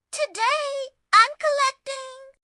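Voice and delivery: high, loud, cocky declaration; cocky boast. A narrator's reading. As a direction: announce it full of swagger. Character boasting.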